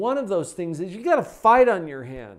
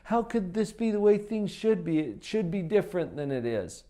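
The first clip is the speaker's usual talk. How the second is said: resistant inner voice; 3 semitones higher than usual. Pretend. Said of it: "the resistance that comes up from your subconscious mind".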